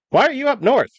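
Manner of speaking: high-pitched suspicious army officer; questioning officer. Acted. Officer questions travellers heading north, high-pitched questioning voice. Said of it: "he's gonna take a look".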